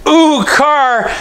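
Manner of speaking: high, airy imitation of his wife; imitating wife. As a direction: play the wife blurting out the wrong words. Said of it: "my wife says something kinda like this".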